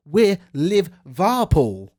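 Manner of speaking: slow, sneering impression of rival fans; mocking rival fans. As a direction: drag it out like a smug rival fan. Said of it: "And people say".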